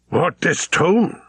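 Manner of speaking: high, admiring exclamation; exclaiming vizier. A narrator's reading. Vizier opening Stephen's gift, exclaiming in admiration. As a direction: exclaim in wonder, pitched high. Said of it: "he exclaimed".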